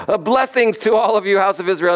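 high-pitched mock proclamation; proclaimed blessing. Soothsayer blessing Israel from the mountain, high proclaiming voice. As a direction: call a blessing out high over a crowd. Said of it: "he gets up there and he goes".

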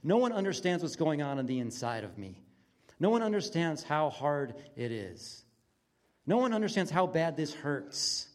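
mildly acted despair, emphatic; understated anguish, leaning on each complaint; self-pitying despair. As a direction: lament it with a touch of self-pity. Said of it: "self-pity or just despair".

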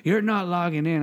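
mildly mock-angry questioning; mad scammer. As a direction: lightly act out an exasperated caller. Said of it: "started to get mad".

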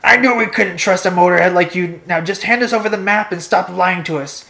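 accusing raider, emphatic and forceful. Acted. Raider confronting captive Rev Head, forceful accusation. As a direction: demand it like a story villain. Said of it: "Raider one".

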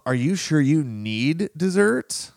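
slow, pointed question that rises at the end; the masked meaning of the friend's question, said slowly and pointedly; pointed judgment. Retold or imitated. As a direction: spell out the hidden insult slowly. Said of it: "what's masked in that question and that tone".

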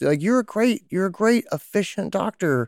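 lightly played gentle question to the doctor; asking the doctor. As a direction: ask the doctor, curious and caring. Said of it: "ask 'em".

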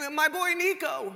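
proud Jewish mother, high and drawn out; badly faked Jewish accent, slow and high; attempted Jewish accent. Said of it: "I can't do the Jewish accent well".

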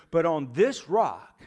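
slow and deliberate, each word placed; solemn slow quote of Jesus; slow, weighty proclamation. Acted. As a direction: lay it down slowly as a promise. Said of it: "he points to himself and says".

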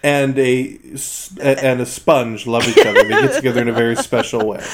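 mock explanation spoken through laughter; fake-earnest lesson broken by giggles; laughing through it. Mock birds-and-bees explanation.

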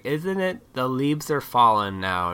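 slow, lightly mocking small-talk voice. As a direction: drag out the dull remark. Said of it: "start to bring up something like".

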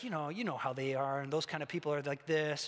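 low, offhand tone of disapproval; mildly mocking, dropped-pitch judgment; passive-aggressive judging. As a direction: lightly imitate a self-righteous gossip. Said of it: "this passive-aggressive, judgmental way of talking".

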